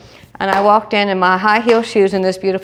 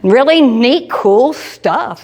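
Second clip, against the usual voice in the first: high enthusiastic; 6 semitones higher, much slower than usual. Retold or imitated. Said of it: "I said".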